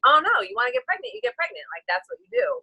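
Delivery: high mocking singsong; sarcastic high-pitched imitation. Mocking what people assume.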